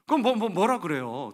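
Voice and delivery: flustered, stammering self-defence; mock panicky helplessness; intimidated. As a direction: stumble loudly over the words, cowed. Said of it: "나 쫄아가지고요".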